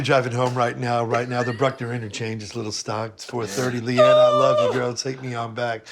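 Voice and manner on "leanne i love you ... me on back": mock lovesick plea.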